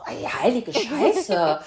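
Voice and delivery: slow, laughing disbelief. Retold or imitated. Telling friends her shocked reaction, slow and laughing. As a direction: draw it out through laughter. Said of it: "Und ich so".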